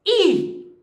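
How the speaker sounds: "I" punched alone, high and sharply falling; stressed syllable alone. Shown as a demonstration. Teacher isolating the tonic syllable, "I" said high with emphasis. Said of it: "I é a sílaba tônica".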